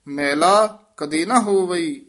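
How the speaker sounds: "ਮੈਲਾ ਕਦੇ ਨਾ ਹੋਵਈ" measured, resting after "ਹੋਵਈ"; pause placement. Shown as a demonstration. Teacher marking the visram, pause after "ਹੋਵਈ". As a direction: come to rest on "ਹੋਵਈ". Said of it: "ਇੱਥੇ ਵਿਸਰਾਮ ਹੈ".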